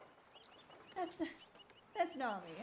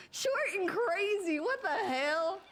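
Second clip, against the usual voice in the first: louder, slow indignant cry; loud outburst; 3 semitones higher, 5 dB louder, slower than usual. Acted. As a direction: bellow it in disbelief.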